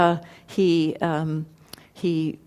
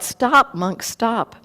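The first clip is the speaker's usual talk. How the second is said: calling out; 5 semitones higher, much slower than usual. Acted. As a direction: shout stop after him. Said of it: "he called out".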